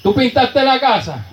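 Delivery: echoed question rising high, mock astonishment; amazed repeat. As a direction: ask it again as if you can't believe the paint. Mi hogar... me decía.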